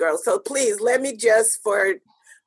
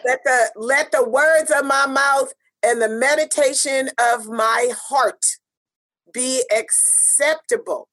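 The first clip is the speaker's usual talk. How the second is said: recited prayer. Acted.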